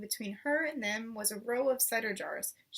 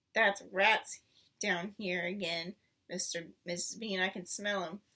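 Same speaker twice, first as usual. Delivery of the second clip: a servant grumbling about rats; 4 semitones lower than usual. Acted. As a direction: grumble it darkly. Mabel grumbling in cellar.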